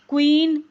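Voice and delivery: क्वीन said loudly, stressing kw; loud, careful kw at the start of क्वीन; kw sound. Shown as a demonstration. Teacher repeating queen to show the kw sound. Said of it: "यहाँ पे क्व की आवाज़ आ रही है".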